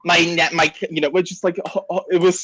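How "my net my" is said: lightly imitating a raspy neighbor; hint of a raspy, slow neighbor; raspy Harvey Fierstein voice. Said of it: "like, raspy voice for it".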